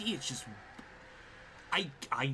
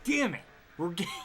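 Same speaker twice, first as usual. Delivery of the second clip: sharp high burst of annoyance; frustrated outburst; 7 semitones higher, 5 dB louder than usual. Real, not acted. Gamer cursing his car in a frustrated yelp. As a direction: snap at the game as the car slides.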